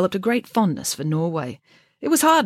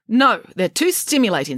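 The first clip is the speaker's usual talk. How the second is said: snapping; 6 semitones higher, 5 dB louder than usual. Acted. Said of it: "snapped the head nurse".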